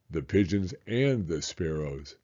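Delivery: a hint of a tender dad; lightly voiced father. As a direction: reassure him as a loving father. Father voice reading dad's lines.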